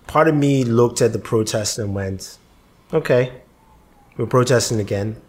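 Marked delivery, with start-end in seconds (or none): 2.9-5.2 dry, unimpressed; deadpan. Retold or imitated. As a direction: say it flat and jaded. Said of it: "with that kind of deadpan face".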